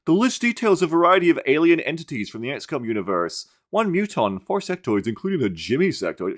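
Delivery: mock AI voice. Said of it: "that fucking Google A I is like".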